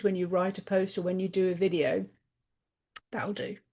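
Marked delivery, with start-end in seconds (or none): 3.1-3.6 quiet, resigned "That'll do"; resigned mutter. Retold or imitated. A shrugging "That'll do" to yourself, said softly. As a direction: shrug it off, barely voiced.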